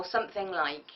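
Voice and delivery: ordinary talk, nothing marked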